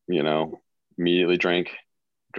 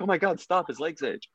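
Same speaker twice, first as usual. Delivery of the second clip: high-pitched imitation of sister; retold sister; 10 semitones higher than usual. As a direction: lightly act out sister cutting in. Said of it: "my sister's like".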